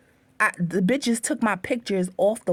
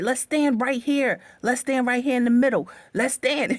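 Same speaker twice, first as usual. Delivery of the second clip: raised, higher-pitched mock yelling at the girls; retold screaming; 3 semitones higher than usual. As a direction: call them all out of their rooms, hollering. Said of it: "I screamed on top of my lungs".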